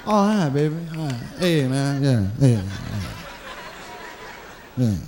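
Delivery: low, strained fake nice greeting; fake friendly. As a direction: grit out pleasantries to the ex. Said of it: "Right, you be".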